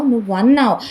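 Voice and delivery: the accusation finally bursts out. Acted. Third repeat, peak of quarrel.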